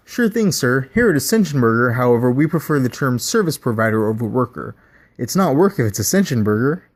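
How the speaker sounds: chirpy fast-food pitch; scripted burger mascot. Acted. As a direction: sell the creepy creed with a smile. Burger bot answers.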